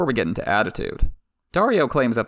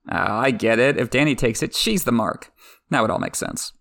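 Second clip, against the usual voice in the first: ordinary talk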